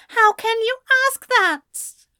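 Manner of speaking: high, loud hurt outburst; anguished cry. Acted. Ezra crying out hurt at Anthony, high and loud. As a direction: cry out, wounded.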